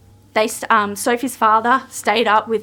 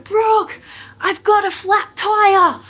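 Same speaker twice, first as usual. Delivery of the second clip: imitating Kate; 9 semitones higher, slower than usual. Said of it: "she's like".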